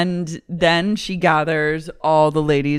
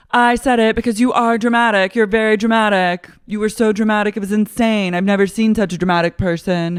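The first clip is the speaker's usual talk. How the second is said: higher, louder, rapid-fire mock rant; Lisa, arguing back; 4 semitones higher, 4 dB louder, faster than usual. Housewife defending her accusation, fast mock-indignant retort. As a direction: pile on the accusations, hammed-up. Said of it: "Lisa goes".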